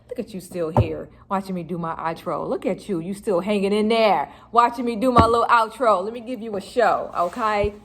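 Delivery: put-on hamming up a New York girl accent; fake New York girl accent. Teasing viewers who stayed for the outro in a New York accent. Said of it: "This is my fake New York girl accent".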